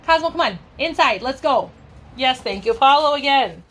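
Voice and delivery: high coaxing call to the dogs; high sing-song dog call. Real, not acted.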